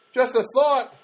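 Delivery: high, snide little jab; sarcastic. Retold or imitated. Tenant needling the landlady, high and sarcastic.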